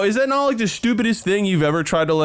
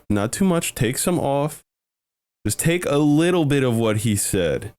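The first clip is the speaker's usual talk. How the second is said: mock skincare tutorial; 3 semitones lower than usual.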